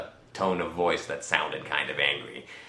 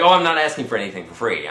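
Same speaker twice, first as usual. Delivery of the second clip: quick, louder, higher-pitched objection; retold protest; 3 semitones higher, 5 dB louder, faster than usual. Customer correcting store staff who refused free items, protesting. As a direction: protest hastily, voice jumping up.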